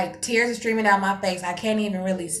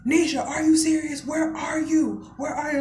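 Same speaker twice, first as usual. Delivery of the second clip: lightly acted exasperated mom, higher; higher, mildly frantic mom voice; alarmed mother; 6 semitones higher than usual. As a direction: imitate a mother demanding answers.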